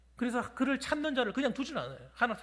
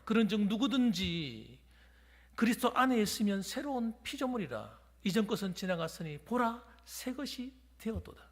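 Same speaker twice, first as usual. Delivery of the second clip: slow, measured reading of the verse; scripture reading. Acted. Pastor reading scripture to congregation, slow and solemn. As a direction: read the verse slowly and solemnly.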